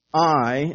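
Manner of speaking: "I" set apart and weighted; stress on I. Shown as a demonstration. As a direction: make "I" stand out on its own. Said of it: "emphatic in the Greek".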